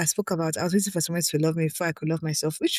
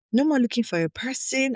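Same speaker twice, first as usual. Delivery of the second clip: emphatic; 7 semitones higher than usual. Real, not acted. Emphatic declaration.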